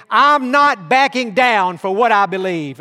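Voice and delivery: loud, defiant declaration. Retold or imitated. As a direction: plant your feet and refuse. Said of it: "they would say it just like that".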